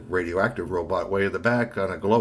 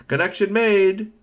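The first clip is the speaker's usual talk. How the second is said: high, beeping device announcement; machine voice; 12 semitones higher, 5 dB louder, much slower than usual. Acted. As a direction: read it like a communicator booting up.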